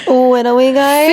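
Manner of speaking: lightly childish daddy attempt; baby voice. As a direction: still sounds like a baby. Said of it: "I still kinda did baby".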